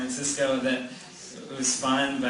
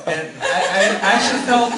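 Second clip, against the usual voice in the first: laughing; 6 semitones higher, 10 dB louder than usual. Real, not acted. Still laughing after story.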